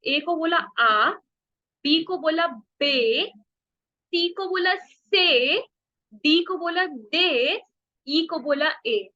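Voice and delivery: slow letter-by-letter drill; slow recap. Shown as a demonstration. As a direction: recite the letters slowly for students to repeat. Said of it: "चलो वापस करते हैं". (धीरे-धीरे अक्षरों को दोहराते हुए)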